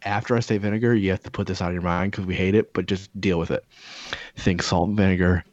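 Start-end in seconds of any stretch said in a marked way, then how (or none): 4.4-5.4 hammed-up snack ad read; commercial voice. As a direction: lay out each flavor like a smooth pitchman. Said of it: "No, it's my commercial voice".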